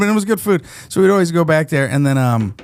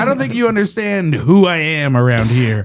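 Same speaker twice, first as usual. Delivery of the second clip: higher, mock-indignant regular; mock self-important; 4 semitones higher than usual. Regular customer pulls rank on a new worker, mock self-important. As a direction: play the offended big shot.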